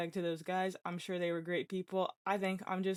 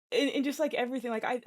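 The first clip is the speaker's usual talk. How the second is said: laughing; 4 semitones higher, 6 dB louder than usual. Real, not acted. Giddy about being loved.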